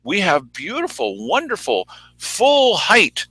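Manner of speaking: lightly mimicked official sincerity; mock commissioners. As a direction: gush mockingly as an official. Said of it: "say the commissioners".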